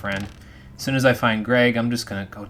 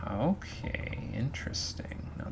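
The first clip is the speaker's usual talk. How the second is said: whispering; 2 semitones higher, 10 dB quieter, slower than usual. Real, not acted. Reacting to secret info.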